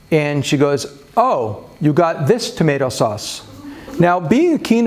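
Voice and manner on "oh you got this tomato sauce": retold wife's line, emphasis landing on "this"; stress on THIS. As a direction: lean pointedly on "this" in the wife's remark. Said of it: "with the emphasis on the word".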